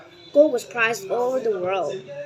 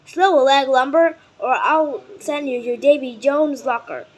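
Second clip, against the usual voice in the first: loud pirate bellow; 2 semitones higher, 7 dB louder than usual. Pretend. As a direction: shout it like a pirate captain. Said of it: "talk like a pirate".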